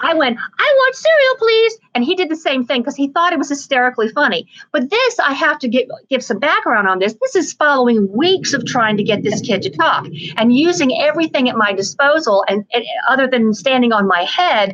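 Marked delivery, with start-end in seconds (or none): 0.4-1.8 little high-pitched teddy bear voice, higher. Retelling getting a teddy bear to order breakfast: little high-pitched teddy bear voice. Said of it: "in that little high-pitched voice".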